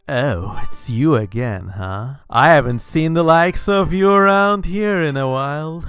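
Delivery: Scar impression. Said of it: "sounding a bit like that lion Scar voiced by Jeremy Irons".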